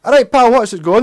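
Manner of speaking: mock-aggressive Scottish hello; aggressive Glaswegian. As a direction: greet a pal so forcefully it sounds like a threat. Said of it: "Oh my God, that's so aggressive".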